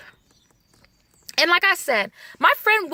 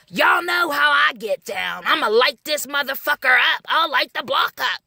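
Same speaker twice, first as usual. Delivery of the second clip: mock neighbor yelling. Mimicking the yelling neighbor, mock shout. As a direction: ham up the yelling man. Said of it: "He gonna light the block up".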